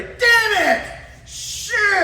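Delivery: high mock yell of frustration; hammed-up wake-up curse; imitated angry curse. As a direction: blurt it like you just woke up furious. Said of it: "she'd do that every".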